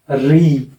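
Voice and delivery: री with a long, stressed vowel; long accented री. Shown as a demonstration. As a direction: draw out the ee in री. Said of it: "जब ये secondary accent लगेगा तब इसका उच्चारण री हो जाएगा".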